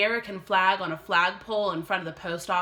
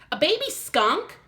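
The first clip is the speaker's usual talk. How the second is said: amazed question; 9 semitones higher, 5 dB louder than usual. Acted. Girl amazed by skunk.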